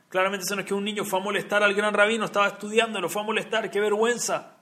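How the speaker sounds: lightly acted dismay at a looming scolding; mildly alarmed. Counsellors fear a boy bothered the great rabbi, mildly alarmed.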